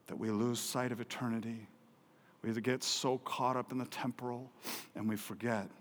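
ordinary talk, nothing marked

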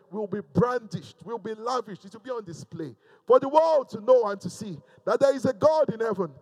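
rousing pulpit proclamation; preaching declaration. Real, not acted. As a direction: proclaim it boldly over the congregation. Declares blessing over congregation.

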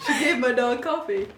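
amused try at a New Jersey accent. Shown as a demonstration. Fixing the misremembered line, giggly New Jersey accent. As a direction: put on Jersey vowels, half laughing. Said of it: "Uh, New Jersey".

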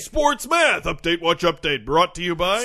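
loud mock sponsor read; hyped-up intro leading into the sponsor; segment announcer. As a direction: echo the stinger like an announcer.

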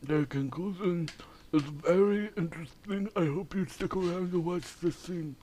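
talking through a teeth grill; wearing teeth grill. Real, not acted. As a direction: speak with a grill over your teeth. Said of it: "finish the ep like this".

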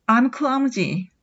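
very slow, falling; drawn-out self-blame; with feeling. Shown as a demonstration. Teacher admits clumsiness slowly for students to copy. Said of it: "ちょっと感情表現を込めて言うと".

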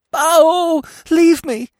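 very high, loud panicked bleat; hysterical bleating. A narrator's reading. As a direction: bleat it out like a terrified young deer. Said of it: "She bleated again".

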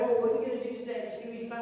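quick, bright and eager; eager travellers. Retold or imitated. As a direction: rattle it off like an excited day-tripper. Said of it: "I can imagine them on this cross-country trip going".

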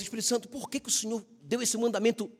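high, pleading complaint to the Spirit; mock grievance, voice lifted high; complaining prayer. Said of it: "falando assim".

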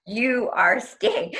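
slow, stretched pronouncement; imitated voice of God. God overruling her as she resists, slow imitated command. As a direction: retell a divine command, drawn out. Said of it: "deep voice".

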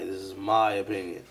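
"my" given the weight; stress on MY. Shown as a demonstration. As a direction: make "my" the key word. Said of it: "I put the emphasis on my".

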